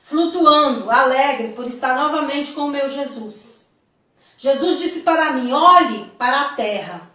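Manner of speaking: deliberate, emphatic reading aloud; solemn testimony reading. A narrator's reading. Telling the church of a vision from Jesus, solemn reading. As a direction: read it out as a weighty revelation. Reads out written vision account.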